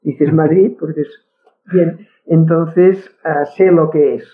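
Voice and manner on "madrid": Madrid ending in a hard t, Madrit; Catalan Madrid. Shown as a demonstration. Explaining how a Catalan says the city, Madrid ending in t. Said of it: "si eres catalana".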